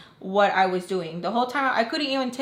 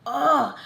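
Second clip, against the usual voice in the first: higher, exasperated "ugh"; disgusted groan; 5 semitones higher, 4 dB louder than usual. Retold or imitated. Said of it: "So I'm getting disgusted".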